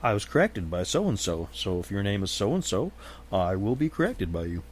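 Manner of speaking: bright upbeat thanks for being corrected; cheerful gracious reply. Retold or imitated. Host answering a viewer who corrected him, cheerfully. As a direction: happily accept the correction. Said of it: "And I'll say".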